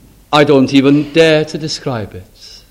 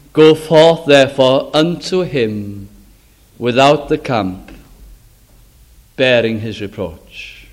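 solemn scripture reading. Acted. Reads scripture aloud.

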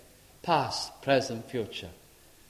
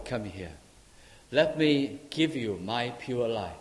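tender call; 5 dB quieter than usual. Acted. The Lord calls tenderly.

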